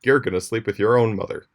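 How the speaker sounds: a wronged seer snapping back; mock-outraged old prophet; indignant prophet. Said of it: "Tiresias is like".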